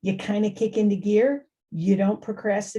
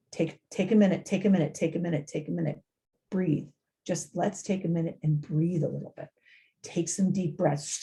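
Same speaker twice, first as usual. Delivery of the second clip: calming coach; 2 semitones lower, 4 dB quieter than usual. Shown as a demonstration. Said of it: "best thing is to help them".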